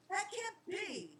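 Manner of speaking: high, slow and soft, stunned; disbelieving boy, softly breaking; cried out in disbelief. Acted. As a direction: let it catch in the throat. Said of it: "Charlie cried out".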